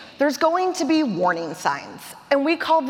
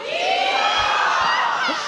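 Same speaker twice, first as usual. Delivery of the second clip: yeehaw. Real, not acted. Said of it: "can you give me a yeehaw?".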